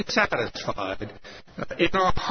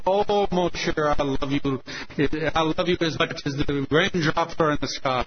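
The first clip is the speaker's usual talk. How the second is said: Pierre. Acted. French husband wooing his wife with flowery devotion, hammed-up lover. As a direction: play a gushing French husband. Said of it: "you know how the French can be".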